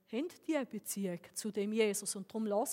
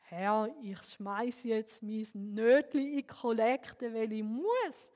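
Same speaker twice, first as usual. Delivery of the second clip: grudging duty prayer; slower than usual. Acted. Acting a grudging offering prayer.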